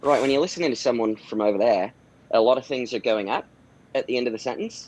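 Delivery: rough attempt at an Australian accent; light, imperfect Australian lilt; crap Australian accent. Shown as a demonstration. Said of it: "I do a crap Australian dialect".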